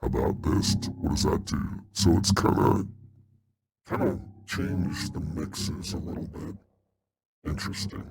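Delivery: voice changer. Shown as a demonstration.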